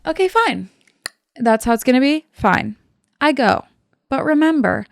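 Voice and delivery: mock huffy concession. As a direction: concede like an offended drama queen. Creature's sulky retort, acted.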